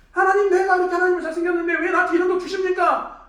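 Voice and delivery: loud, high protest to God; acted outcry, demanding why from God; 따지는 원망. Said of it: "하나님을 따지지 말고". (목청 높여 하나님께 따지듯)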